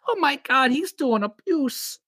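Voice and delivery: high, slow mocking outrage; mock outraged feminist. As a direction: mimic an outraged critic. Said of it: "that's gonna be some feminist".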